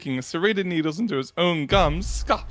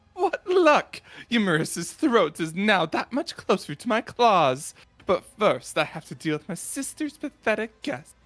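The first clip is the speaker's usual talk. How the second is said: lightly voiced scheming villain, higher; gleeful villain; 5 semitones higher than usual. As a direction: relish the lucky find. Voicing Mazurai.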